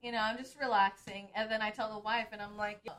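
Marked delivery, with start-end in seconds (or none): 2.8-2.9 put-on American English accent. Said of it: "my American English accent comes out".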